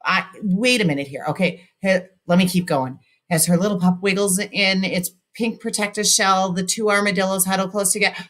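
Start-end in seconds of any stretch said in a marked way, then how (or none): 3.3-8.2 run-on reading, speeding up toward the end; running out of breath. Shown as a demonstration. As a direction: push through without a breath until the air gives out. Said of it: "I ran out of breath again".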